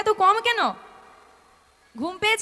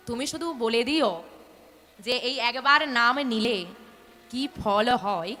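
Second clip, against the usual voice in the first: sincere, lower advice; 7 semitones lower than usual. Acted. Sadhu's closing advice, slowing.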